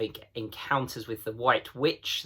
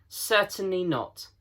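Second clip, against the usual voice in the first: higher, indignant correction; mildly stern beaver, offended; 8 semitones higher than usual. A narrator's reading. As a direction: scold the foolish question. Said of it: "said Mister Beaver sternly".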